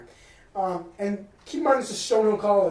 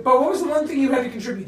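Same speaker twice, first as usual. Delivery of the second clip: teasing call-out; 4 semitones higher, 6 dB louder than usual. Real, not acted. Teasing Bo on the podcast.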